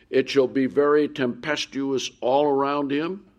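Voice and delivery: solemn booming scripture read; preaching scripture. Acted. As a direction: proclaim it to the congregation. Reads psalm aloud from pulpit.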